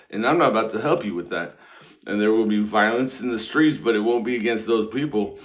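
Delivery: half-serious sermon read to the crowd; mock preaching. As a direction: intone it like a preacher. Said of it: "read some more of the Bible for you, preach more".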